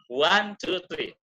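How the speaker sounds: lilting, emphatic count; demonstrated intonation. Shown as a demonstration. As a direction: lean on "One", ease off by "three". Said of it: "terus ada intonasi itu".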